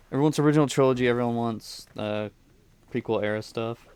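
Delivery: talking through hiccups; hiccuping between words. Real, not acted. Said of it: "I got the hiccups pretty bad right now".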